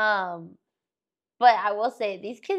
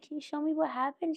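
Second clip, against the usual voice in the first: gentle coaxing teacher; 7 semitones higher, 6 dB quieter than usual. Retold or imitated. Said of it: "I said".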